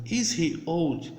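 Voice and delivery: slow, carefully spaced model question; slow demo English. Shown as a demonstration. Teacher to students learning English, slow and deliberate. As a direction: spell it out slowly for beginners. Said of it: "É uma pergunta".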